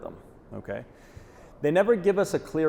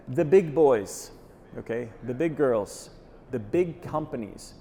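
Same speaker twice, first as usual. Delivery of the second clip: slow, with big hit hard each time; stress on big; slower than usual. Real, not acted. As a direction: lean on big in every phrase, slowly. Slow building list for emphasis.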